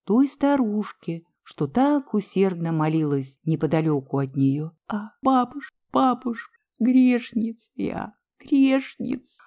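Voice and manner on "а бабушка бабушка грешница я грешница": moaning lament. A narrator's reading. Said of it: "простонала Ольга".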